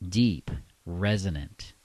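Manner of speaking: slow, drawn-out sensual delivery; sensual, deep, resonant. Shown as a demonstration. Coach showing men a sensual tone, deep, resonant and slow. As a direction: let each word resonate, unhurried. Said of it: "Use a sensual tone, deep, resonant".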